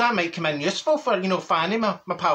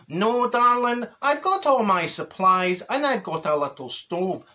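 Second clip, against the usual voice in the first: camp neighbour; 3 semitones higher, slower than usual. Retold or imitated. Neighbour quoted about supplies.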